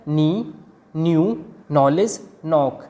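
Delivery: नी, न्यू, नॉलेज, नॉक each starting on N; silent K. Shown as a demonstration. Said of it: "के की sound नहीं आई है".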